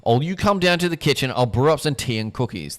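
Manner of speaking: a hint of brisk British matron; crisp and businesslike, lightly voiced; brisk no-nonsense. Rona calls everyone to the kitchen, lightly brisk. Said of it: "briskly, case dismissed, no nonsense voice said".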